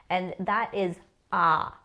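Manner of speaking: "ah" held long and open. Shown as a demonstration. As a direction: stretch the "ah". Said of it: "a long A sound".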